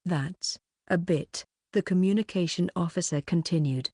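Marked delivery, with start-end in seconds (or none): 0.0-1.5 slow, halting stammer. Acted. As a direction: trip over the first word. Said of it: "the director stammered".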